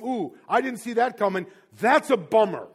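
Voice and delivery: a light, pleasant letdown, no complaint in it; said nicely. Shown as a demonstration. To a listening congregation, a gentle mock disappointment. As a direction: keep it nice as you say the bummer. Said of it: "said nicely".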